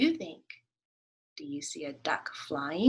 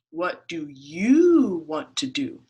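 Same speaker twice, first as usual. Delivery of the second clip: lower, louder rabbit; 3 semitones lower, 11 dB louder, slower than usual. Acted. Rabbit asking the duck, lower and louder. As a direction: ask it back bluntly.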